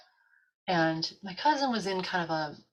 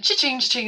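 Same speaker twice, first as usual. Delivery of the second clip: tag; 7 semitones higher, 9 dB louder than usual. Retold or imitated. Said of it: "you hear the bell".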